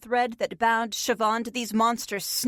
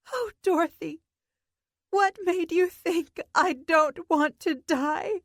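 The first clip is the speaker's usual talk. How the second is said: put-on a higher, slow, dark child's voice; dark childlike menace; 6 semitones higher than usual. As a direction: Siobhan turning on Dorothy, slow and eerie. Dark turn, Siobhan glares.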